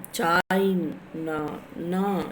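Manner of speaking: "China" stretched on "Chai", then a light separate "na"; unstressed final syllable. Shown as a demonstration. Teacher showing which syllable is not pressed, "na" light and falling. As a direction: draw out "Chai" and set "na" down lightly. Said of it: "You are not pressing N A".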